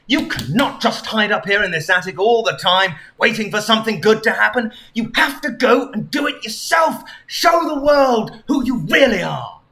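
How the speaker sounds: lightly voiced motivational hero; urging Sonic. Sonic urges Anne Frank out of hiding, lightly voiced rousing tone.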